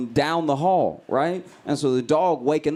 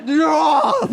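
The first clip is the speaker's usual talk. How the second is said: long, high, loud wail; sudden shriek out of sleep; waking dog scream; 13 semitones higher, 5 dB louder than usual. Retold or imitated. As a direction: imitate a dog screaming itself awake. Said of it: "how it wakes up every day".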